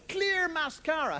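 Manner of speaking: "Clear mascara" drawn out slowly; slow mock disbelief; slow incredulous. Shown as a demonstration. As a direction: let each word hang, scoffing. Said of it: "mocking product name".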